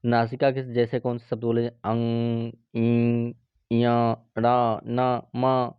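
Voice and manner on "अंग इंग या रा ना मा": अंग इंग ना मा pushed through the nose; nasal demo. Shown as a demonstration. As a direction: let अंग and मा ring in the nose. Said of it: "ये नाक से बोला जाता है". (नाक से बोले गए अक्षर)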